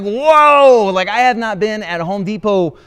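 high, loud startled whoa; shocked whoa. Retold or imitated. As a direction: yelp it out in disbelief. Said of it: "I was like".

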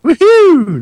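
high, loud woohoo; whooping cheer. Real, not acted. Host cheers co-host's accent attempt, excited whoop. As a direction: let out a high whoop of approval.

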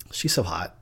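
hushed whisper; breathy aside, almost silent. Real, not acted.

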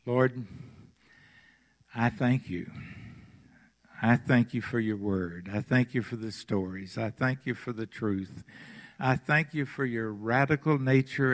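hushed earnest prayer to the Lord. Real, not acted. Leads the congregation in prayer.

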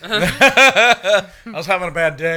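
high, slow laughing mimicry; mock excuse. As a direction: parody the wife's excuse. Mocking wife's excuse.

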